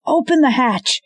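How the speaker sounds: very high, loud scream; man screaming for the hatch; screaming order. Acted. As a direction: scream it toward the ship.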